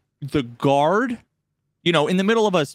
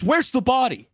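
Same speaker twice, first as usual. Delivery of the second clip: higher, hammed-up cop demand; eager policeman; 7 semitones higher than usual. Retelling the policeman's line, lightly mocked. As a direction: play the keen cop arriving. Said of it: "the policeman runs over and says".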